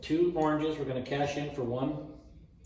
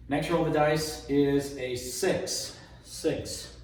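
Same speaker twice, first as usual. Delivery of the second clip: craps table caller; slower than usual. Acted. Announcing the roll result like a stickman.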